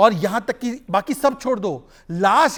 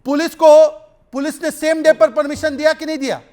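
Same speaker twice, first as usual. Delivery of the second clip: louder and higher, pressing to be heard over interruptions; raised pleading voice; 3 semitones higher, 5 dB louder, slower than usual. Real, not acted. Debater to anchor, demanding not to be interrupted, loud and pleading. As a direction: raise your voice to cut through the crosstalk.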